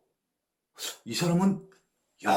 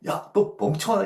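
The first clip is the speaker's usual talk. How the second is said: God's rebuke; 5 dB louder than usual. Retold or imitated. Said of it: "이런 얘기예요".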